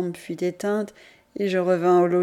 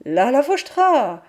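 shouted; 5 semitones higher, 4 dB louder than usual. Retold or imitated. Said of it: "J'ai crié".

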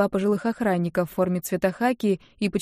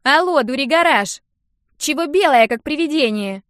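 loud, higher teasing jab; mocking tease; 6 semitones higher, 6 dB louder than usual. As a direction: poke fun at her pale friend. Нинка teases pale friend.

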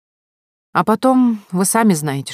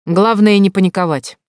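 firm, louder steady command; 3 semitones higher, 6 dB louder than usual. Acted. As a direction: say it firmly, no panic. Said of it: "ответила она твёрдым голосом".

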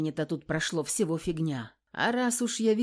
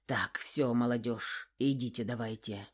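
hoarse; 6 semitones lower, 5 dB quieter than usual. Acted. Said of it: "хрипло сказал он".

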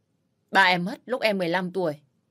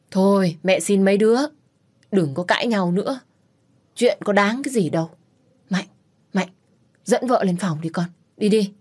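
louder, begging them to stop; mother-in-law begs the family to calm down; anxious raised plea; pleading loudly; 4 dB louder than usual. Acted.

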